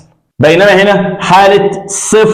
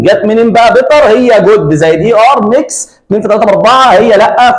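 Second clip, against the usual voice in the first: higher, mock-baffled questioning; mock puzzlement; 5 semitones higher than usual. Teacher playing the confused student, mock-baffled and higher.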